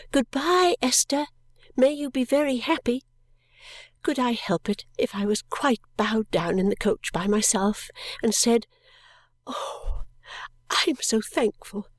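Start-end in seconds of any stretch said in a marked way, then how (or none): 0.1-3.0 high, ringing farewell call. Acted. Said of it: "calling out". 9.5-10.0 tearful sigh. Acted. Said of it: "I made myself sob less". 10.7-11.9 tearful whisper. Acted. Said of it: "I made myself sob less".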